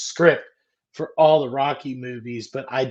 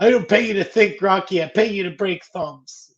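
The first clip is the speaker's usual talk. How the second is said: angry boss; 6 semitones higher, 3 dB louder than usual. Retold or imitated. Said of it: "When he's like".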